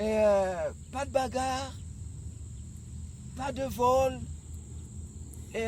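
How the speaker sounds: loud, slow, hammering out each rule; roaring rallying speech. Acted. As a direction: drive every rule home to the squad. Coach lays down team rules.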